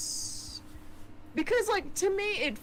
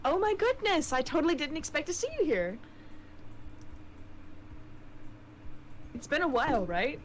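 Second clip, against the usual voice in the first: put-on New Zealand accent; 4 semitones higher than usual. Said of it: "giving her the New Zealand accent".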